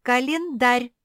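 loud, high, insistent declaration of Календарь; standing firm. A narrator's reading. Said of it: "стояла на своём".

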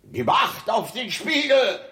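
loud, high command; sharp order. Acted. King orders the guard, loud and commanding.

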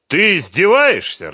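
loud, high-pitched outraged question; angry. A narrator's reading. Фёдор losing patience with Сухарев, angry. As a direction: explode at him in anger. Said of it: "разозлился Фёдор".

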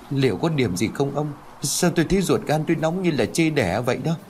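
mildly frightened question to her husband; slightly trembling. A narrator's reading. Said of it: "liền hơi run". (hơi run sợ)

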